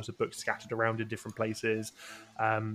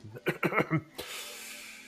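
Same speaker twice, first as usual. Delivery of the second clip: throat clearing; 6 semitones higher than usual. Acted. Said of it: "clears his throat and begins to read".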